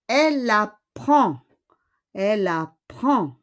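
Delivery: "elle apprend" ending on the nasal vowel, no D; silent final D. Shown as a demonstration. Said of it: "On ne prononce pas le D".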